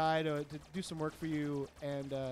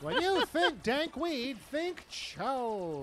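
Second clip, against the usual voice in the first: 1940s radio voice; 6 semitones higher, much slower than usual. Pretend. Continuing radio bit.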